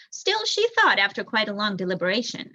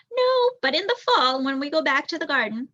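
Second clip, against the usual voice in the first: high, louder burst of eagerness; a son eagerly pleading with his mother; eager boy; 6 semitones higher, 4 dB louder than usual. A narrator's reading. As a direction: jump in with a bright new plan. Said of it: "Martin was growing excited".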